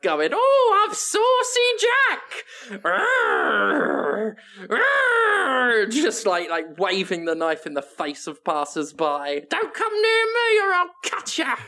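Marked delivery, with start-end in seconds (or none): 0.3-2.8 high, gleeful villain crowing his own name; gleeful Jack the Ripper. Pretend. Jack the Ripper taunting the London streets, high and gleeful. 2.8-5.9 high play growls of a knife-waving maniac; mock pirate growl. Jack growling while waving knife. 9.5-11.6 high, cackling villain threat; mock threat. Jack the Ripper threatening passers-by, high and hammy.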